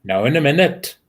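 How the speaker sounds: lightly sung Welsh lilt; attempted Welsh accent. Friend answering the call for Welsh, light Welsh accent. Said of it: "you've got to do a Welsh accent".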